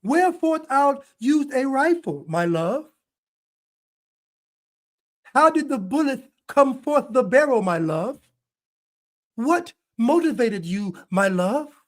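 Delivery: lightly hammed-up old-fashioned sweetheart; a hint of a swooning lover, each my love lilting up; mock lovey-dovey partner. Commentator mocking the partner's replies as a gushing lover. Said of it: "you just casually saying".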